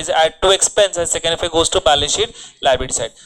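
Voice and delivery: very slow, word-by-word dictation. Shown as a demonstration. Teacher dictating the accounting rule to students, slowly. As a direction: spell the rule out slowly for note-taking. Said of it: "dictating rule to students".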